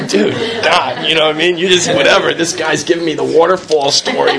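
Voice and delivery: laughing through the words in disbelief. Real, not acted. Laughing as he tells the audience about the waterfall story. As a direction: chuckle through it, amused at the absurdity. Laughing while retelling his reaction.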